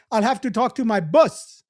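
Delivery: imitated African accent, BOSS close to "bus"; mock African accent with emphatic words. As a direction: quote the teacher in an African accent. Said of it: "she had an African accent".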